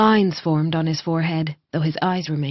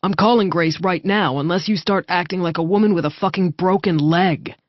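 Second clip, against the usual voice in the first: threatening. Acted. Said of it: "Revel threatened".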